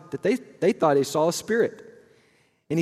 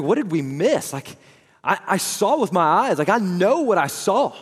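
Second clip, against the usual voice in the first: raised, louder, pleading disbelief; bewildered disciple; 6 semitones higher, 6 dB louder than usual. Retold or imitated. A disciple asking what they missed, raised and louder. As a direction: voice the disciples' frantic confusion after the burial. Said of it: "wondering, like".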